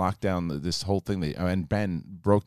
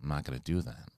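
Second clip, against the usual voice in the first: Ray Liotta impression; 7 semitones lower, 11 dB quieter than usual. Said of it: "I could get Ray Liotta down".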